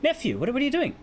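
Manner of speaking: a hint of a puzzled host asking why his guests are leaving; bewildered uncle. Lu Boshe asks his nephew why he leaves so soon, lightly voiced bewildered uncle. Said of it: "and he says".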